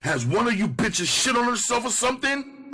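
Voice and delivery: put-on high, loud bellow at the girls. A narrator's reading. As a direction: bark it out in disgust. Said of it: "I bellowed".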